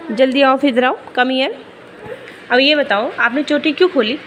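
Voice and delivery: scolding mom. Real, not acted. Mother scolding her daughter over the opened braid, firm.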